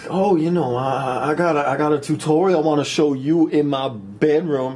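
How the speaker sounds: put-on girl's voice. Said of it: "She's all like".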